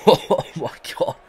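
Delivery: slow, loud disbelieving oh my god; stunned and loud; disbelief. Real, not acted. Near miss in cricket game.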